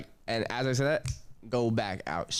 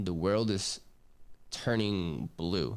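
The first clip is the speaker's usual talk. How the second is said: slowed right down, trailing off on "turning blue"; dazed slow drawl; 4 semitones lower, slower than usual. Retold or imitated. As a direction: let "turning blue" drift out slow and lower, like the world is tilting. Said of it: "I want you guys to remember blue".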